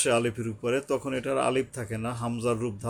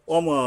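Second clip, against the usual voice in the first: অমা with a long-held final aa; three-alif elongation; 5 semitones higher, 5 dB louder, much slower than usual. Shown as a demonstration. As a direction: stretch the end of অমা evenly. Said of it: "তিন আলিফ টানতে হবে". (অমা শেষে লম্বা টান)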